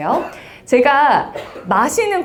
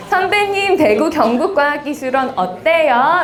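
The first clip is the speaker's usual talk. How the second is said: higher-pitched, cute younger student; cute junior; 4 semitones higher than usual. Shown as a demonstration. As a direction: ask a senior sweetly, pitched up like a kid. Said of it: "귀엽게 질문을 해주시면은". (귀여운 후배 말투로)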